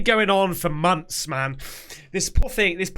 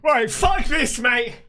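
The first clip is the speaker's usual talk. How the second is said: spooked outburst; 3 semitones higher, slower than usual. Real, not acted. Spooked by pictures, bailing out.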